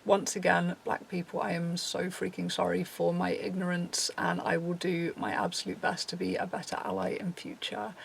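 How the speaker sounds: stiff, read-out statement; reading a prepared apology; robotic reading. Real, not acted. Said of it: "kind of a bit robotic reading it".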